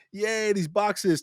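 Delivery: high, drawn-out mock cheer; gleeful. Worker celebrating the boxes, acted glee. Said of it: "So it went from".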